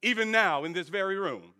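a hint of Morpheus, low and grave; lightly voiced Morpheus, hushed and ominous; imitating Morpheus. Preacher quoting Morpheus to Neo, low and grave. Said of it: "That's how he was talking, y'all".

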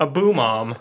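British "A boom arm", arm without the r; British accent. Shown as a demonstration. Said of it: "That was British for boom arm".

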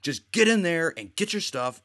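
hammed-up angry dad; mock angry order.

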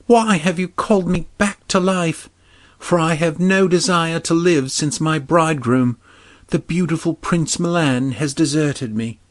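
a maiden mourning her lost bridegroom; grieving princess. Acted. Hyacinthia laments to old man.

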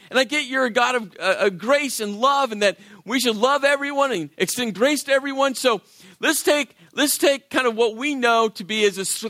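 pleased with his own generous offer; eager bargaining. Retold or imitated. Pastor voicing Peter to Jesus, eager bargaining.

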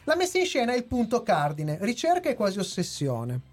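measured scripted reading over background music; review read. Acted. Back to scripted review text.

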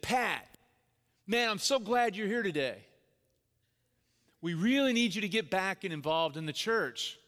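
imitating an eager church leader, pitch lifted; fired-up enthusiasm. Board chairman greeting dad in the church parking lot, fired up. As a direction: gush like a pumped-up greeter. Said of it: "He's fired up".

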